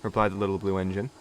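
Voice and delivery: ordinary delivery, nothing marked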